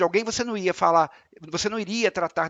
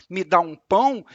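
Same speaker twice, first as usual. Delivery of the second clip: arrogant; 3 dB louder than usual. Shown as a demonstration. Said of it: "e entender com arrogância".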